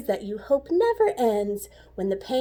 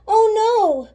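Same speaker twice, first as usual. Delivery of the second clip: higher and louder worried cry; mock alarm; 10 semitones higher, 6 dB louder than usual. A narrator's reading. Narrator builds suspense for the listener, higher. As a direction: gasp it out in suspense. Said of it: "narrator exclaiming".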